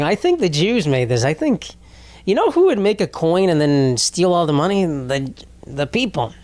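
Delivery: lightly put-on Jewish accent; mock a suspicious accuser in a mild Jewish accent. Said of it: "I said that in a Jewish accent".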